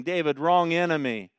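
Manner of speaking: emphatic rebuke. Real, not acted. Preacher's building triple rebuke.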